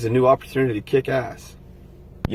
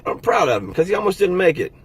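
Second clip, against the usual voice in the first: getting emotional; 6 semitones higher than usual. Real, not acted. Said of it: "Now I'm getting emotional".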